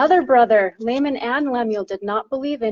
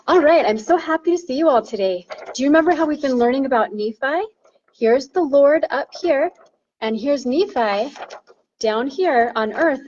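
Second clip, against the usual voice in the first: put-on teaching children. Shown as a demonstration. Teacher addressing primary children.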